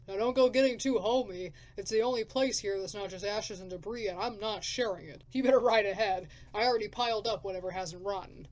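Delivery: loud, rough wasteland drifter; gruff drifter. Acted. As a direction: bark it like a grumpy survivor.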